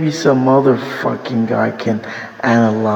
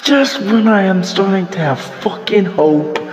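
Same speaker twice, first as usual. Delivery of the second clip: higher-pitched exasperated complaint; real frustration; 6 semitones higher than usual. Real, not acted. Fan complaining that the team always dashes hope, frustrated. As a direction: let the grievance burst out high, then break off. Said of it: "I'm fucking frustrated".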